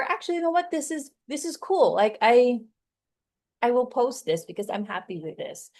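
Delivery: delighted with your own take; pleased. Shown as a demonstration.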